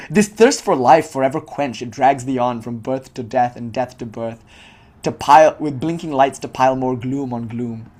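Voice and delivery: slow, weighty recital of verse; solemn reading, pressing on thirst and pile; poetry recitation. Shown as a demonstration. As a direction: intone the lines like scripture. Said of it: "recites verse".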